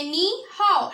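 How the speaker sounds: "नी हाओ" said as "ni hao", a clear Chinese hello; Chinese greeting demo. Shown as a demonstration. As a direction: model "नी हाओ" for the students, "ni" then "hao". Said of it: "तो नी हाओ इस तरह से आप बोलेंगे". ("नी हाओ" का चीनी उच्चारण)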